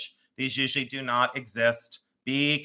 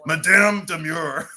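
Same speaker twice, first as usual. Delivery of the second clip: mock grand title; 2 semitones higher, 7 dB louder, slower than usual. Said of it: "I'd wanna be called Madame".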